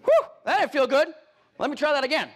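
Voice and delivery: high, loud, rattled after the hit; shocked. Retold or imitated. Agent rattled by a client objection, voice jumping up. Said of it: "You're like".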